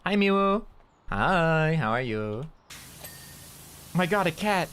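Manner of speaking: high cutesy pet voice. Real, not acted. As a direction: gush over the cat in a high voice. Baby-talk greeting to cats.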